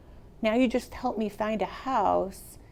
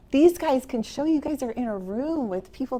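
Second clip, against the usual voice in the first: laughing; 5 semitones higher, 3 dB louder than usual. Real, not acted. Laughing while pointing to colleagues.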